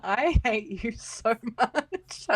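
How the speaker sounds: slow, drawn-out playful grievance; mock hatred. Real, not acted. Co-host answers the teasing, mock hatred. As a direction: drag it out in comic exasperation.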